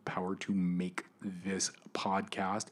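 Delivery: slow breathy whisper; hushed, slow power line. Real, not acted. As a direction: drop to an intense whisper. Rhythmic power list, dropped low.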